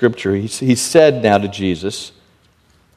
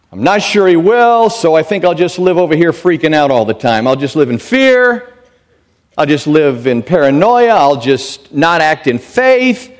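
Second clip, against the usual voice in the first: high, pitched-up mock worry; mock fretting; 5 semitones higher, 3 dB louder than usual. A believer who doubts God, in hammed-up anxious fretting. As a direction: act out a panicky doubter. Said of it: "Do you think".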